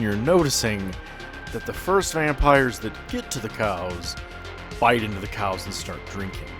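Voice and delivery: usual speaking voice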